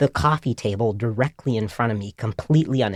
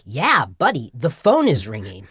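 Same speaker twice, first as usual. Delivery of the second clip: lightly acted pointed nagging; mock reproachful. Annoyed onlookers staring at the phone's neighbour, mock exasperation. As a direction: swing the pitch like an exasperated onlooker. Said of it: "giving me these death stares".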